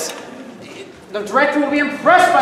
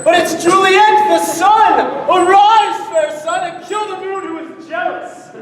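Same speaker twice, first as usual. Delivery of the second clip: hammy Shakespeare. Acted. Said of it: "Romeo's lines performed".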